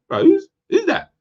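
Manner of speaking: high, loud, excited inner voice; acted-out thought on spotting someone; intrigued double take. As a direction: blurt it out, suddenly very interested. Voicing thought on spotting a woman.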